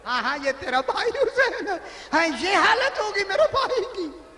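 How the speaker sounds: high, broken, half-laughing grief; a bitter laugh through tears; bitter answer. Acted. Zainab answers the cruel man with bitter grief.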